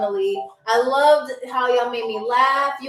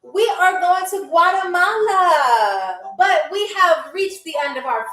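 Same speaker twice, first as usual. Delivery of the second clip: pilot announcement; 2 semitones higher than usual. Pretend.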